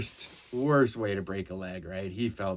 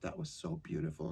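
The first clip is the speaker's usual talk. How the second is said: higher, soft, sweet nurse voice; a gentle older nurse, lightly voiced; imitating the nurse; 8 semitones higher, 11 dB quieter than usual. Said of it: "And she's like".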